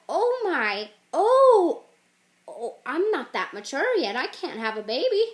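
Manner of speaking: loud mock panic, swooping high; hammed-up freak-out. Young man faced with a screaming toddler, hammed-up panic. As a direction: wail in comic alarm. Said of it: "'cause he's freaking out".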